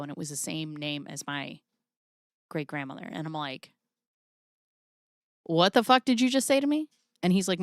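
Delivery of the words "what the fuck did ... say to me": mock shocked outburst. Retelling her shock at the doctor.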